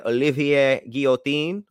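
put-on French accent on the name only; perfumey French-accented name. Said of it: "you threw that accent on just specific words".

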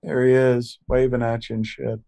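loud, high hype-man voice; excited host. Acted. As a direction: pump up the crowd. Hyping up the audience.

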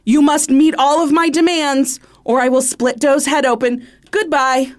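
lightly voiced menacing kidnapper; a hint of a villain on the phone. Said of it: "developing your racist accent".

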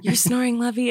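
mildly sweet retold reminder; nice, gentle nudge. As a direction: tell a sleeping partner nicely, at an easy pitch. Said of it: "I always do it nicely".

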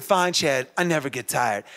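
low, soft, defeated mumble; half-hearted. Retold or imitated. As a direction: say it without believing it. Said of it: "say it like you mean it".

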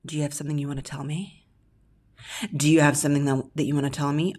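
a hint of a suspicious mum, hurried; mock suspicious mother. Mimicking a woman grilling her man, suspicious and quick. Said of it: "The next phrase is".

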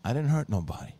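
put-on deadpan drunk. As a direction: deliver it dead flat, as if nothing happened. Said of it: "Tony very deadpan goes".

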